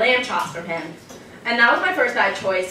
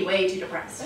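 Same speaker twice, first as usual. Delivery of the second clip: deadpan excuse; 4 semitones lower, 6 dB quieter than usual. Pretend. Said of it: "flat excuse reply".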